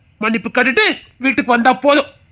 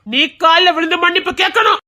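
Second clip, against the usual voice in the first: raised, angry command from a father; father raising his voice at his daughter; stern order; 5 semitones higher than usual. Acted. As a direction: order her to beg forgiveness, voice rising. Father scolds daughter to apologise.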